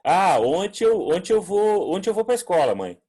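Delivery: put-on high, loud childish muddle of tenses; imitating a child. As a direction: play a small kid telling mum about school. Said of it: "criança dizendo assim".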